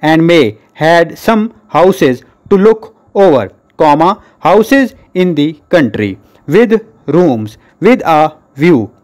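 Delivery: measured dictation, punctuation spoken aloud; steady classroom dictation, falling on each full stop; dictation reading. Shown as a demonstration. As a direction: read it out for pupils to write down, comma and full stop included.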